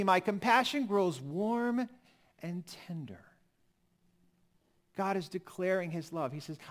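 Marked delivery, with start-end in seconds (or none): 0.0-3.2 slow, fading to a whisper on the last words; tender hush. Acted. Preacher voicing God's compassion to his people, tender whisper. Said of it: "hear the love in this".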